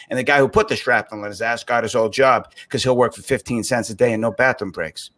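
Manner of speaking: put-on Good Will Hunting monologue in Boston accent; lightly put-on Southie accent, rattling off the speech; Matt Damon. Boston native reciting the NSA job-interview monologue, Damon-like Boston accent. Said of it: "I was just messing around 'cause I loved Good Will Hunting".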